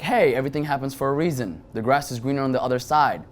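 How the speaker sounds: a touch of an upbeat pep-talk voice; inner life coach. Retold or imitated. His inner life coach pepping himself up after the fight. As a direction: coach yourself through it. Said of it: "the motivational speaker and life coach in me".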